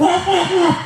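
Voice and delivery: high yappy dog bark imitation; laughing mock dog barks. Dog barking at mother-in-law.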